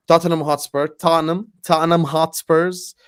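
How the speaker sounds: lightly mocked-up Tottenham accent; put-on accent. Host teasing Spurs fans, badly put-on accent. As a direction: try out a bad accent on the club's name. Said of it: "that accent, I'm not gonna lie".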